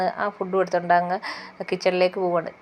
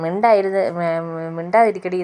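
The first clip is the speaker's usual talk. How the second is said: louder retold scold, told to shut up; mother-in-law retold scolding the girl at the table, louder; 4 dB louder, slower than usual.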